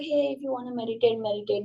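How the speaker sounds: bored take-it-or-leave-it meditation pitch; unexcited invitation. Shown as a demonstration. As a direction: shrug it off like you don't care. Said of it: "Not like".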